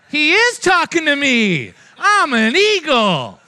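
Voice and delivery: loud, high, laughing joy; slow, loud laughing triumph; laughing delight. Real, not acted. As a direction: crow it out with laughter. Delighted realization at kiosk sign.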